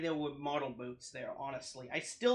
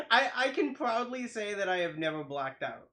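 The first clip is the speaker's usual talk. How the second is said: higher voice settling out of a real laugh; amused, laughing; 5 semitones higher, 4 dB louder than usual. Real, not acted. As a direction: start through laughter, then settle. Talking straight after laughing.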